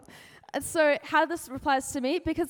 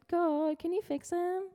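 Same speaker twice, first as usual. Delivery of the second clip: pleading complaint; 6 semitones higher than usual. Retold or imitated. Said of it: "Habakkuk's pretty much just like".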